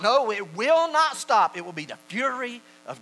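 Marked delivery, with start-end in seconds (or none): 0.0-1.6 loud, high, slow denial; preacher's forceful rebuttal; emphatic refusal. Real, not acted. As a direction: thunder each word deliberately. Preacher forcefully answers imagined objection.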